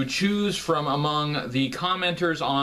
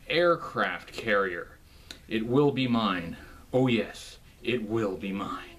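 evil villain gloat; 5 semitones lower than usual. Pretend. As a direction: gloat over the prize like a cartoon villain. Villainous boast about aircraft carrier.

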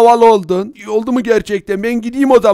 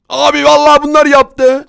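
high, panicky excuse; frightened, urgent denial; panicked pleading; 4 semitones higher, 4 dB louder than usual. Acted. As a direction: plead your innocence in a raised voice. Frightened villager blames the others.

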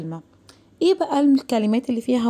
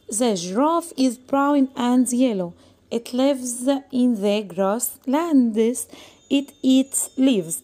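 very slow, word-by-word classroom reading; slow reading aloud; much slower than usual. Shown as a demonstration. Teacher reading the lion text aloud to the class. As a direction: read it out slowly for young learners. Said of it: "reading text to pupils".

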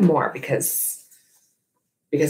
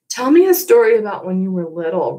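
pleading; 5 semitones higher, 3 dB louder, faster than usual. Acted. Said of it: "Ruby pleads".

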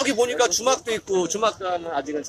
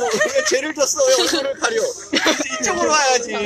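yelling across the room; 6 semitones higher than usual. Real, not acted. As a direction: call them over, raised and high. Host waving shy students over.

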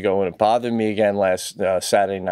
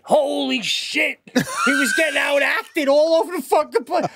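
incredulous rant; 13 semitones higher than usual. Real, not acted. Ranting to his co-host about Tom Cruise. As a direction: rant in pitched-up disbelief.

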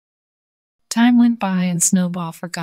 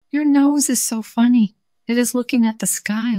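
mocking laugh; 6 semitones higher, 3 dB louder than usual. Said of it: "laughed Snowball".

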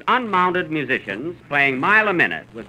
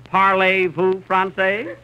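mock French; 5 semitones higher, slower than usual. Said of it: "can you play the part of a French Canadian".

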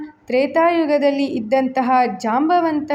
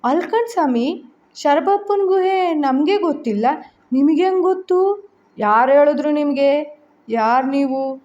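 barrage of questions; 2 semitones higher than usual. Acted. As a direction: fire questions at the stranger. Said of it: "ಪ್ರಶ್ನೆಗಳ ಸುರಿಮಳೆಗೈದಳು".

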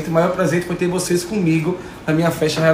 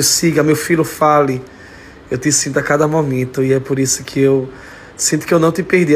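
emotional tribute; 3 semitones lower than usual. Real, not acted. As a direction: hold back tears while speaking to her. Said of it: "ficou todo mundo agora chorando".

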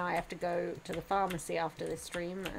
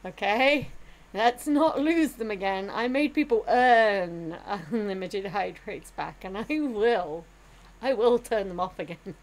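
loud scolding; 9 dB louder, slower than usual. Real, not acted. Scolding chat over lost hydrates.

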